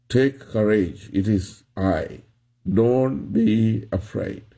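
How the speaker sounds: low, slow and tender; gentle reassurance. Acted. Jesus calming terrified disciples, tender and slow. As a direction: soothe the frightened disciples. Jesus quoted again, softly.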